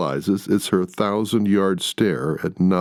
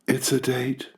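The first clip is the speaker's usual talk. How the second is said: flat reply; 6 semitones higher, 4 dB quieter than usual. Acted. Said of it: "she flatly responds".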